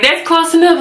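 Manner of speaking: high-pitched eager quote; imitating a thrilled new boyfriend; excited acceptance. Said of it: "he got so excited".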